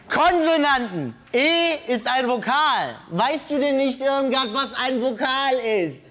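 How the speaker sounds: high, emphatic mock scolding; exasperated lecturing. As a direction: lecture a hopeless pupil in comic disbelief. Host mock-scolds Irmgard about vowels. (gespielt verzweifelt belehrend)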